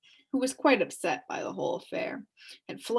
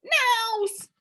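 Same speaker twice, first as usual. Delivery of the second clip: angry growl; 12 semitones higher, 6 dB louder, much slower than usual. Acted. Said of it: "growled Talk angrily".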